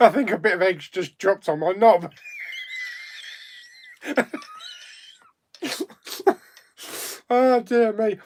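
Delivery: loud, laughing through the words; cracking up while talking. Real, not acted. Egg dropped, laughing at it.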